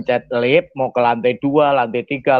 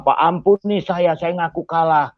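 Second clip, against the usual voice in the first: raised voice, mildly acted begging; imitated pleading; 3 semitones higher than usual. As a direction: act out a defeated man asking pardon. Beaten attacker begs again for mercy. (meniru permohonan ampun)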